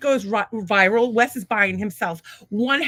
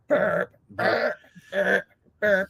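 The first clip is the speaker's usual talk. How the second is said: imitated burps; 3 semitones lower, much slower than usual. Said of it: "be like".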